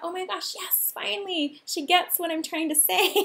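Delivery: light, high, hushed gush of relief; mock-relieved inner voice, breaking into a laugh; relieved excitement. Her relieved thought on the call.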